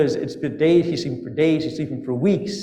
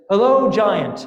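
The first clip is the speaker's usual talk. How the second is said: calling out; 5 semitones higher, 4 dB louder, slower than usual. Acted. Minister hails a huge giant.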